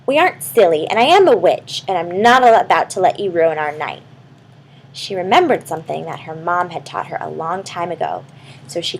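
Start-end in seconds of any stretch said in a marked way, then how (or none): 0.1-4.0 brave. Acted. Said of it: "Raven said bravely".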